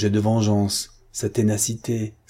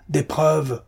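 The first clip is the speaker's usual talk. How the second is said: cried out; 6 semitones higher than usual. A narrator's reading. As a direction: repeat the demand, now shouting. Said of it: "cria-t-il". («des preuves!» crié plus haut et plus fort)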